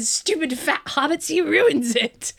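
lightly voiced Gollum, drawn-out ending; mock-scolding creature, stretching the last words; Gollum impression. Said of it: "that's Gollum".

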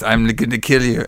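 lightly imitated robot monotone. Host imitating the possessed killer, mild robot voice. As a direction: do a half-hearted robot voice. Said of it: "make my shit sound like a robot".

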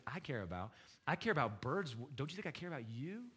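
a hint of motherly softness, a bit quiet; soft like a mother. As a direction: coax them gently like a mother. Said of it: "talking very softly like a mother".

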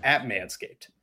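upbeat sponsor ad read. Acted. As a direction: sell it like a podcast ad. Host reads sponsor ad.

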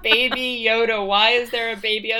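loud, quick bewildered question; excited exclaiming. Retold or imitated. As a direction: fire off the question. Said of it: "It's just like".

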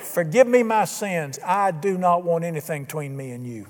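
a sincere request for forgiveness; prayer. Shown as a demonstration. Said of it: "about who he is".

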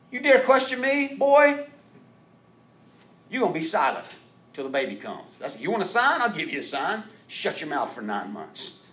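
high, loud scolding angel; stern angel. Acted. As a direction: scold him like an offended angel. Angel rebukes Zacharias.

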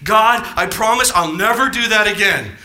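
loud, mock-pleading promise; earnest vow. Preacher voicing a fallen believer's promise to God, loud earnest vow. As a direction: promise it loudly, as a fervent vow.

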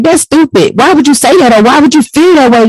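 retold disbelief. Mother retelling how she dismissed her son's feelings, incredulous. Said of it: "When I be like".

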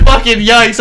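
high, loud, through laughter; incredulous, laughing exclamation; laughing disbelief. Real, not acted. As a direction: crack up while reporting the insult. Retelling her rejection amid group laughter.

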